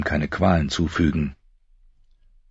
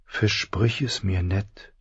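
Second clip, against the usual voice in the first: remembered voice; 3 semitones higher, 5 dB quieter, slower than usual. Acted. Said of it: "hörte er Lyannas Stimme".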